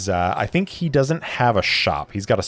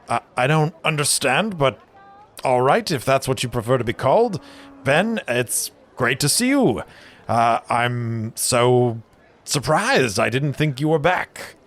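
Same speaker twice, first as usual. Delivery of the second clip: high, quick cheerful brewer voice; fluster, then gladly accept; jovial brewer; 5 semitones higher than usual. Acted. Brewer welcoming his friend back, high and quick.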